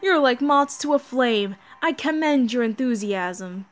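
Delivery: a hint of a mocking villain chorus; lightly voiced demon gods. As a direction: gloat over the doomed heroes.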